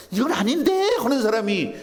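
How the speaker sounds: high-pitched mock objection; nitpicking objection. Preacher imitating a deaconess who quibbles over every item, objecting. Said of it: "권사님도 계속 따지는 거 있잖아".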